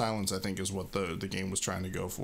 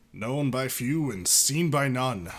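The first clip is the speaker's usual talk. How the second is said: slow mystic Xatu; 4 dB louder, slower than usual. Acted. Xatu cryptic line.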